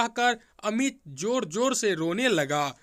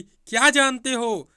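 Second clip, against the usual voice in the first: sharp, louder retort; a little angry; 4 semitones higher, 6 dB louder than usual. A narrator's reading. Sister-in-law snaps at young Amit, mildly angry. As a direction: snap back with mild anger. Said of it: "थोड़ी गुस्से से बोली".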